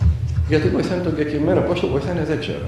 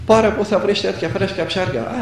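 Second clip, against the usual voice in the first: retold seller's pitch, pitched higher; insistent hawking; 5 semitones higher than usual. Fisherman presses a reluctant passer-by about fresh fish, insistent hawking. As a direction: press the customer to buy, voice lifted.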